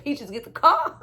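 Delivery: high, loud quote through laughter; laughing quote. Retold or imitated. Viewer repeating Franklin's order, laughing loudly. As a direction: repeat the line while cracking up. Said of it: "when he said".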